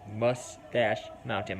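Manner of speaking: slow Minnesota accent on "Mustache Mountain"; drawn-out Minnesota vowels. Real, not acted. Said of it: "My stupid Minnesota accent".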